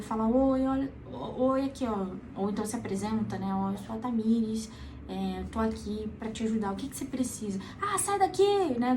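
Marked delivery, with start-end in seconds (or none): 0.3-2.1 soft voice. Shown as a demonstration. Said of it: "falar numa voz suave". 3.5-7.6 gentle voice. Shown as a demonstration. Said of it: "falar numa voz suave". 7.8-8.8 angry refusal. Retold or imitated. Person on the ledge refuses help.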